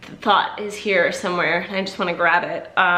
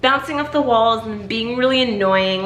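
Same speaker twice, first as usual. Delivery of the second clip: put-on quoting boyfriend; 4 semitones higher than usual. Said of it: "he was like".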